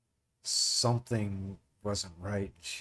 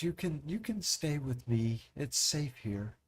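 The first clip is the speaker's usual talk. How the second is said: motherly, soothing; 3 semitones higher than usual. Acted. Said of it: "She goes".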